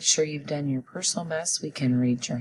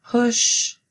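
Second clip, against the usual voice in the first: emphatic sight word; 8 semitones higher, 6 dB louder than usual. Shown as a demonstration. Teacher calling out a sight word, emphatic. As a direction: push called out higher and louder. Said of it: "Say it with me".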